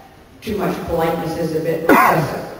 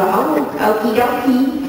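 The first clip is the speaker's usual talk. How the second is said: put-on locked-jaw Canadian accent, pitched up; lightly mock a Canadian accent with the jaw held still; 5 semitones higher, slower than usual. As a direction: say okie dokie in a chirpy Canadian accent. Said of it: "lock your jaw and not move it at all".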